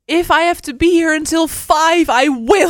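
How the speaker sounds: high, emphatic insistence; retold determined vow. Friend refusing to quit ticket queue, determined. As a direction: vow it stubbornly, imitating the friend.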